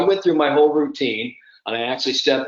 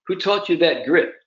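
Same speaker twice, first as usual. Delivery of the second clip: put-on higher-pitched take on an English South African accent; 6 semitones higher than usual. Golf instructor questioning his pupil, lightly imitated English South African accent. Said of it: "that great English South African accent of his".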